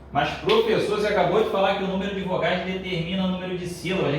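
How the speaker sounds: rushed, puzzled student objection; objecting student. Pretend. Student challenges professor on the syllable rule, fast protest.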